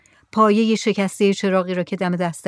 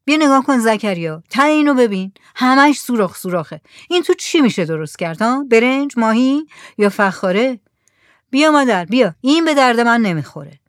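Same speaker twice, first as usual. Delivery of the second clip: lightly voiced mullah, grumbling over junk; mullah complaining; 4 semitones higher, 4 dB louder than usual. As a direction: scoff at the holed pot. (ملای غرغرو با صدای کمی بالاتر)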